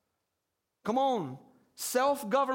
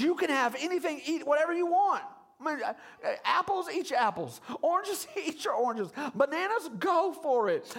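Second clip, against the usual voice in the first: higher, hammed-up generous boss; lightly voiced God; 5 semitones higher than usual. God at staff meeting offering Adam the garden, lightly acted. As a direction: play God breezily handing out permission. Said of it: "God's having a little staff meeting".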